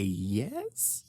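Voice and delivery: unconvincing, reluctant yes with a rising end; forced. A narrator's reading. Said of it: "Nick forces a".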